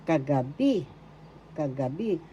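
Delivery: Kagabi with a lifted final "bi"; stress on third syllable. Shown as a demonstration. Teacher repeating the word for last night, accent on "bi" in Kagabi. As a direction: say kagabi evenly, leaning on the closing "bi". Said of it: "that's how you pronounce it".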